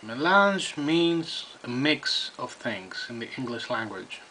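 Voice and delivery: talking around pipe stem; pipe in mouth. Real, not acted. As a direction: lips clenched on pipe. Seen 0: Pipe stem at lips while talking; briefly pulled aside mid-phrase.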